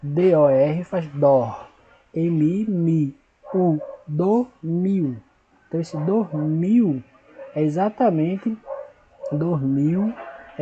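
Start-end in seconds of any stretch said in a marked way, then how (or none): 0.0-5.2 dor, mi, u spoken slowly with pauses; syllable by syllable. Shown as a demonstration. Teacher splitting dormiu for the class. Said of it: "Dormiu também há uma separação silábica".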